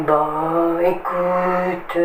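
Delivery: lightly mimicked French person, drawn out; French person, normal. Showing a normal Frenchman's mood, drawn-out mimicry. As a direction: stretch both words evenly, a hint of caricature. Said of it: "Un français normal".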